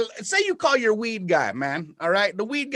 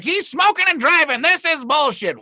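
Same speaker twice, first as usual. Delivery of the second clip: mock outrage; 9 semitones higher, 4 dB louder than usual. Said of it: "everybody's like".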